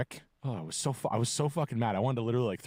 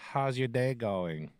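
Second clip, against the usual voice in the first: put-on drawn-out, slow drunk small talk; lightly voiced drunk bar patron; drunk woman; slower than usual. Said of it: "She was hammered".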